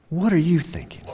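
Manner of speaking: hushed whisper, almost no voice. Acted. Pastor whispering to the congregation, hushed. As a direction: lean in and whisper the question. Intimate question to the listener.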